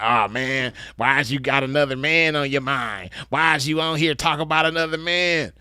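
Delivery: mock the complainers, stretching out the words; mocking whiny complainer. Man mimics his commenters' objections to roasting, mocking whine. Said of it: "that's how them bitches talk".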